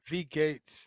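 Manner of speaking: "V" said "vee", "Gates" with a long ay; corrected German pronunciation. Real, not acted. Host thanking viewer for the correction, corrected pronunciation. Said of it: "I got the V part".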